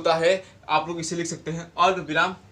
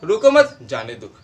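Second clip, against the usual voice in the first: louder रोको मत, short break, जाने दो; pause after मत; 3 semitones higher, 5 dB louder than usual. Shown as a demonstration. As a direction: run रोको into मत, then let जाने दो fall. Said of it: "जहाँ कोमा है ना वहाँ थोड़ा".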